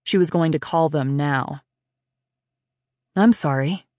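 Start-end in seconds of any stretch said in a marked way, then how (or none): 3.2-3.8 a hint of a calm, soft stranger; lightly voiced quiet stoic man. Kidnapper apologising from the car, soft and stoic. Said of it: "his soft but stoic voice".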